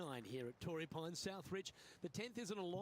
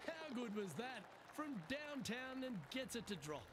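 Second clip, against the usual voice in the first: excited; 6 semitones higher than usual. Real, not acted. Reacting to a long putt drop.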